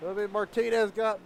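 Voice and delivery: excited high race call; motorsport commentator. Real, not acted. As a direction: call the close finish with energy. Calls the photo finish.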